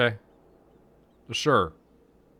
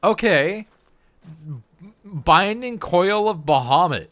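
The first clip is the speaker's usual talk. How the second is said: surprised; 9 semitones higher, 8 dB louder, slower than usual. Real, not acted. Surprised by boss fight.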